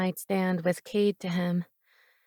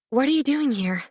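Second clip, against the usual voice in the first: breathless exclaim; 5 semitones higher than usual. Acted. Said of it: "I exclaimed in a much too breathless voice".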